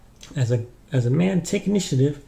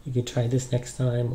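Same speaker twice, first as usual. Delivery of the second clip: subtle gentle suggestion. Shown as a demonstration. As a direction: ease the advice in gently. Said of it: "Be more subtle".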